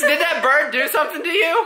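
ordinary talk

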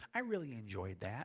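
put-on elderly old lady voice. Retelling what an older lady said leaving a library concert, in an old lady voice. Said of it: "I don't mean to be with an old lady voice".

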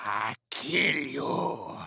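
very low, creaky, rough, scary and menacing voice. Answering a request to say a scary thing: scary. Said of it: "Say a scary thing".

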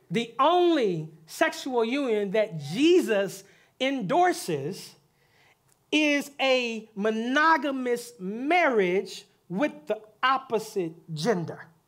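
slow, deliberate delivery. Repeating a point again for the listeners, said slower. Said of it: "Let me say it slower".

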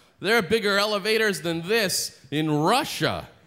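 dry sarcastic tone. Retelling what a man said in a crowded elevator: imitating a sarcastic remark.

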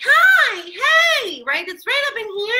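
very high, squeaky, nasal little cartoon voice. Speaker demonstrates head placement in a high Minnie Mouse voice. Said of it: "speaking really, really high, like Minnie Mouse".

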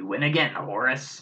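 words growled out in a biker's growl. Narrating a scene, the speaker voices a biker who just lost at chess, growling. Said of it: "he growls".

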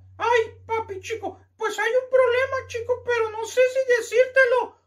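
put-on high, tearful, crying boy's voice.

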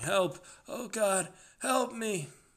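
frantic yell, very high, slow and drawn out. A caller heard through a radio headset, shouting. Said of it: "heard the caller shouting".

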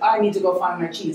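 ordinary delivery

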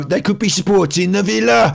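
pitched way up, Brummie street-preacher voice. Retelling a joke, imitating a street preacher's West Midlands voice. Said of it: "I will imitate his voice".

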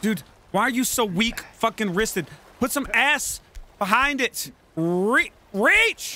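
annoyed, heated, pissed-off outburst. The speaker scolds his weak-reaching character: getting angry. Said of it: "I'm getting pissed off".

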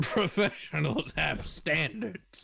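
put-on Texan accent. Player quoting a game character, called out by another player: Texan-accented TF2 Sniper impression. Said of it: "sniper from TF2 where he's a Texan instead of an Australian".

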